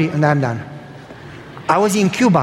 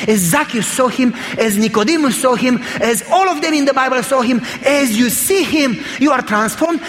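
urgent preaching that climbs steadily higher; fervent preaching; 3 semitones higher than usual. Real, not acted. Preacher urging the congregation to see God, fervent and building. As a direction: build phrase on phrase toward a sermon climax.

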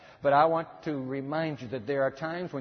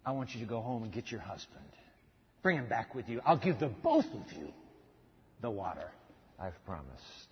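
Jesus voiced softly; 6 semitones lower, 8 dB quieter than usual. Jesus voiced in retold story.

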